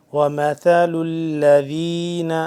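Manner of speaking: slow وَمَثَلُ الَّذِينَ, soft ث, lam held tense; soft tha, doubled lam. Shown as a demonstration. Quran teacher modelling tajweed for students, slow careful recitation. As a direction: lean on the shadda of الَّذِينَ, ث soft. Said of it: "ثا کو نرمی سے پڑھنا ہے اور لام".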